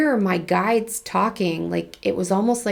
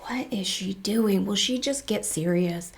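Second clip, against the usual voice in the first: judgy whisper; 3 dB quieter than usual. Retold or imitated. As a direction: hiss it like a judgy critic. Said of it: "or going".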